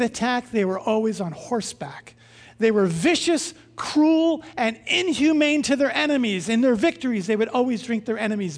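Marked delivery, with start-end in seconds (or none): 2.6-6.5 emphatic. Acted. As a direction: hit "vicious" and "cruel" hard and high. Dramatizing the feared Scythians.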